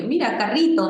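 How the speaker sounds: put-on a child showing a toy car; child's voice. Shown as a demonstration. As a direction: play a toddler pointing at a toy. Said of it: "si el niño dice".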